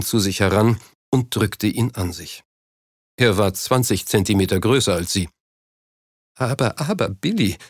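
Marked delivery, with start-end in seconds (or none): 6.4-7.6 a touch of a stifled sob; choked voice. A narrator's reading. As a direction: hold back tears while soothing. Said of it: "mit erstickter Stimme".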